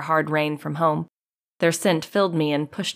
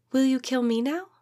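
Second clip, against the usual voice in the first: a timid question pitched higher; 9 semitones higher than usual. A narrator's reading. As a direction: ask it meekly, afraid of the answer. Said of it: "asked timidly".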